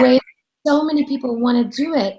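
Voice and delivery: heartfelt praise. Retold or imitated. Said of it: "it was so heartfelt".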